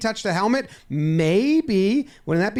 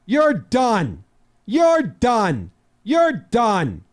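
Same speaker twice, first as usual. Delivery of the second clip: firm ejection; much slower than usual. Acted. Umpire ejecting the manager.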